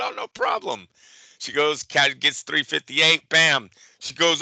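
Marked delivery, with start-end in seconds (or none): 0.0-0.9 chirpy clerk. Retold or imitated. Clerk's breezy reply retold.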